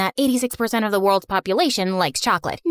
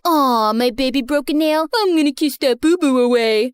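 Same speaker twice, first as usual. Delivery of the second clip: put-on sugary baby-talk voice of a smitten boyfriend; mocking baby talk. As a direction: coo it like a lovestruck guy. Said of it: "The guy was all like".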